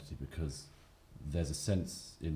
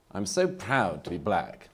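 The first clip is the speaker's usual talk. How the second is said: slow, proud, a little raised; mock proud declaration; 3 semitones higher, 4 dB louder, slower than usual. Speaker mocking identity pride to a debate audience, mild mock pride. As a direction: parody a self-congratulating speaker. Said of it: "The unsupportable phase is".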